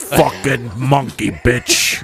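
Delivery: Brooklyn driver voice. Retold or imitated. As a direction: play the pushy New York limo driver. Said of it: "you got a really funny voice".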